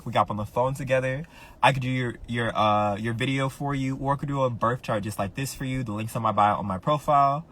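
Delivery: quick, upbeat promo pitch; commercial break read. Shown as a demonstration. Streamer plugging her astrology readings to viewers, in a quick ad-read voice. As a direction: sell the readings like a radio ad. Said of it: "Let me do my commercial break".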